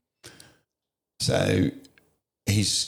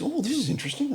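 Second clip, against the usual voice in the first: much higher, sing-song mock curiosity; mock fascinated nurses; 3 dB quieter, faster than usual. Nurses eye the gory injury, mimicked with lilting interest. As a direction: mimic detached medical fascination.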